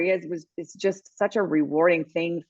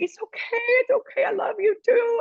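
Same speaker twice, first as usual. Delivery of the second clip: very high imitated reassurance; retold consoling. Player comforting the crying reporter, high retold affection. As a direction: act out soothing someone in tears, pitched up.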